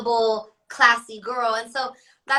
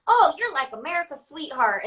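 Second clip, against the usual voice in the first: mock country accent; 3 semitones higher than usual. Airport fan gushing at her, in a Midwest country accent. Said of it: "I don't know why I'm saying it with that accent".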